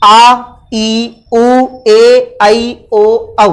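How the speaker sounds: "आ", "ई", "उ" each held long with pauses between; long vowels drawn out. Shown as a demonstration. Teacher sounding out the long vowels for students, drawn out. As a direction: stretch each long vowel slowly and clearly. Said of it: "किस प्रकार से इनका उच्चारण हो रहा है".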